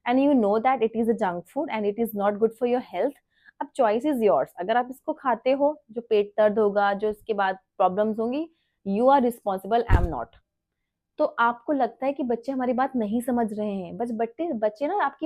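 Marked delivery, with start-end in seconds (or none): 0.1-10.3 calm firm talk to daughter. Retold or imitated. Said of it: "तो मैं उसको simple बोल देती हूँ".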